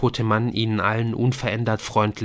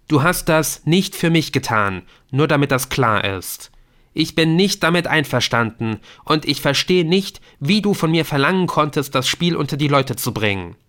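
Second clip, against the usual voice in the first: raised, pained voice of a grieving son; angry son; 5 semitones higher, 5 dB louder than usual. Acted. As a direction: confront the father, hurt and angry. Adrian confronts his dead father. (aufgebrachter Sohn, laut und verletzt)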